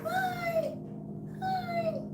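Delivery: tiny, very high, soft voice; squeaky greeting. Pretend. Saying hi with the pet dog, tiny squeaky voice. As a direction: squeak a little hello way up high.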